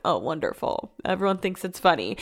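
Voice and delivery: dry sarcasm. Real, not acted. Dad jokes about putting it on the podcast.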